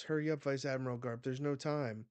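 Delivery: fast, urgent Marine's plea; urgent hurrying. Retold or imitated. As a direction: hurry the words along, acting out urgency. Marine urges Garp in battle.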